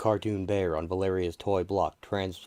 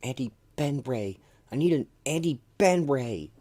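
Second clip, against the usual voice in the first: gruff Ben voice; 7 semitones higher, 4 dB louder than usual. Acted. Ben's gruff voice in story.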